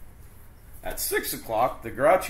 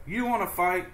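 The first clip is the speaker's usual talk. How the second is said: grouchy ladybug; 8 semitones higher than usual. Acted. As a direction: taunt them to fight. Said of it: "said the grouchy ladybug".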